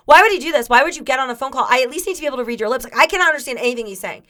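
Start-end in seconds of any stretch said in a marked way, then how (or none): 0.1-2.8 louder, mock-panicked complaint; retold freaking out. Host recalling baffling phone call, mildly freaking out. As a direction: replay a mild freak-out. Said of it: "I was freaking out 'cause I'm like".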